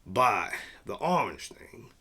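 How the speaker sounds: breathy aside under the breath; whisper. Real, not acted. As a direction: murmur it to yourself while reading. Reading site under breath.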